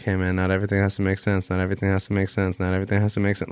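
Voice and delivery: fast, looping message on repeat; rapid repetition. Retold or imitated. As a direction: rattle it off like an insistent chant. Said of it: "Like, a billion times".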